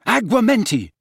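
high, loud spell shout. A narrator's reading. Harry shouting a spell at the goblet.

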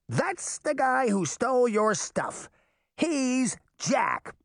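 put-on high boyish goading; high-pitched fairy boy tattling; egging on. A narrator's reading. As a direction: stir up the giant in a high voice. Puck eggs on the giant.

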